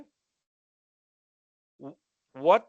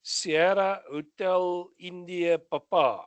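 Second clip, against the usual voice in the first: spelled out slowly. Shown as a demonstration. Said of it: "correct phonetic spelling for the word ship".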